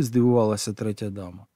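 ordinary delivery, nothing marked

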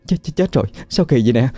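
high, panicked stammering cries. A narrator's reading. Hairdresser panics as the old woman's scalp falls off, high panicked cries. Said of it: "Chị hoảng loạn hỏi".

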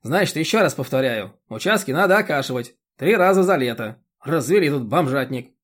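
a bossy chairwoman lecturing; indignant chairwoman. Acted.

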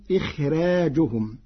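"إخراجهم" with a light, thin ra. Shown as a demonstration. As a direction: soften the ra in "إخراجهم". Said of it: "بترقيق الراء".

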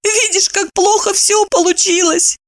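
high weeping farewell; squeaky tearful farewell. A narrator's reading. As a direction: squeak it out through tears. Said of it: "обливаясь слезами, пропищала она".

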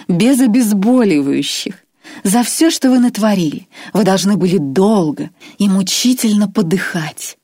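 enjoy every cruel word; relish. Acted. Irma tells Grois his fate with obvious pleasure. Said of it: "с явным удовольствием".

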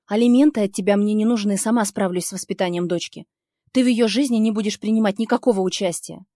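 громко и твёрдо, с нажимом; давить голосом, не уступая; жёсткий ультиматум. Acted. Ультиматум бывшему, давит на него. (героиня громко ставит условие бывшему)

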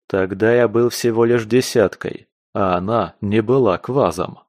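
usual speaking voice

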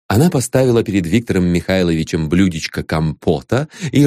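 ordinary delivery, nothing marked

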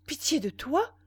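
loud, high question; strong sleepwalker voice. A narrator's reading. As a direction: ring it out abruptly in a trance. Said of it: "la voix forte et brève du somnambulisme".

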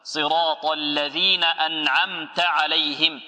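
drawn-out recitation of the verse; measured tajweed reading; slow Quran recitation. Shown as a demonstration. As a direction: chant each word slowly. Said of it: "teacher recites the verse".

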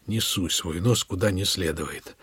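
low, slow, soft menacing hiss; fierce hiss. Acted. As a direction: hiss the threat savagely. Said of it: "прошипел свирепо".

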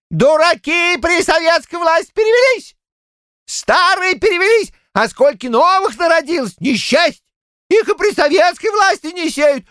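put-on high, worked-up old-man rant; high old man ranting in a meeting; heated old Shchukar. A narrator's reading. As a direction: keep pecking like a riled rooster. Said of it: "Разгорячась".

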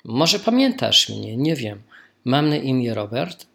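normal talking voice

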